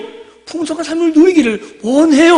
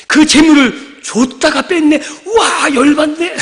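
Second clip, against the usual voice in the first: slow, louder hammed-up grumble; mock frustration; 4 semitones higher, 3 dB louder, slower than usual. Believer whose wealth was taken, mock annoyed slow grumble. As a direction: act out being fed up.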